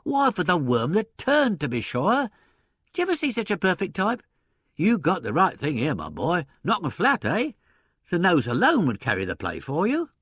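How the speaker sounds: high, emphatic enthusiastic pitch; excited salesman. A narrator's reading. Impresario selling newcomer to partner, excited. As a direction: sell your find with gusto. Impresario touting his find.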